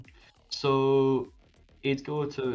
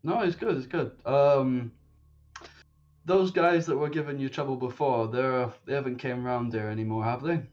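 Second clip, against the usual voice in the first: higher, louder concerned regular; protective regular; 4 semitones higher, 4 dB louder than usual. Acted. Regular asking the owner about the thugs, higher and louder. Character asks about the troublemakers.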